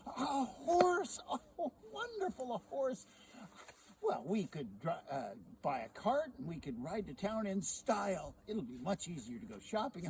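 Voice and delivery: high, loud thrilled wife; wife thrilled to hear of a horse; delighted wife. Acted. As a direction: gush over the horse. Sally delighted by news.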